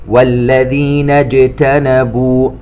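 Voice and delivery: اجتنبوا with a firm unsoftened ج, slow; اجتنبوا with a hard ج, not sh; clear jim. Shown as a demonstration. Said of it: "ننتبه إلى الجيم". (اجتنبوا بجيم معطشة غير مشوبة بالشين)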